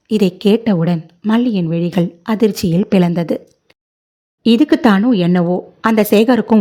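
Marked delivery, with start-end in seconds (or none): none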